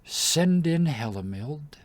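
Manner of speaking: slow, high, loud call from afar; distant summons. Acted. Queen calls the next prisoner in, distant command. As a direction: summon them coldly, drawn out.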